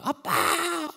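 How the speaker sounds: put-on high, loud childish shout; toddler's outraged taunt; angry little girl. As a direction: yell it like a furious four-year-old. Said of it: "화를 내는 거예요".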